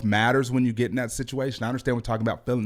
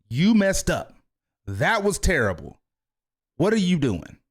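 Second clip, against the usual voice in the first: harsh coach yelling; 6 semitones higher than usual. Retold or imitated. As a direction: bark it like the coach he doesn't want to be. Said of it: "It was never a".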